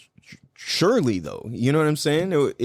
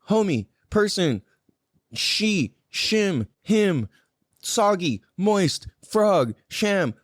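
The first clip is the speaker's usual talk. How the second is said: string of short falling calls, pitched up; internal alarm calling out; 4 semitones higher, much slower than usual. Acted. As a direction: keep hailing someone, one name after another. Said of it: "like your internal, like, alarm going off".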